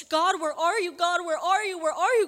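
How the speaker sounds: high, loud pleading call; desperate cry to God. Acted.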